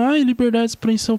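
whiny mock version of "liberdade de expressão"; mocking whine. Mocking the guys who yell about free speech, whiny. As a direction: sneer "liberdade de expressão" like a spoiled protester. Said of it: "vê os caras gritando".

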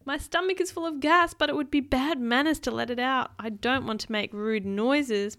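put-on prim, polite storybook girl; polite reply. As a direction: explain politely, like a well-mannered girl. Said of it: "Martha May replied politely".

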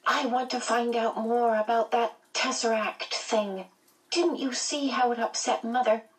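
put-on high-pitched child figure, insistent; young brother explaining his reason; small boy's high voice, pressing the point; earnest little boy. A narrator's reading.

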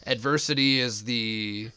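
tipsy, slow, fumbling for words; losing the thread after too much moonshine. Real, not acted. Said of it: "I'm getting drunk".

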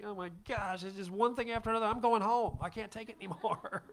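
half-joking i-give-up rant; frazzled driver fed up with errands; exasperated rant. Retold or imitated. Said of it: "I was just like".

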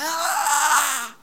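loud, high gasp of amazement; mock amazement. Dazzled churchgoer gaping at a con man, loud mock amazement. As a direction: gape like a dazzled fool. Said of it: "And you're like".

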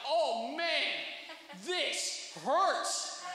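loud, high-pitched mock cry of pain. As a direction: yelp it out like a stretch really hurts. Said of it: "I'm crying out".

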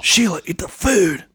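high, slow whiny nerd voice; Napoleon Dynamite voice. Retold or imitated. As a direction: drag it out, exasperated nerd.

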